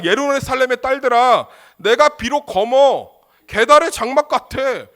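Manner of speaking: loud, high proclamation of the bride; bold proud shout. Acted. Preacher shouting the bride's proud words to the congregation. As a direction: declare it proudly at full voice. Preacher voicing the Shulammite boldly.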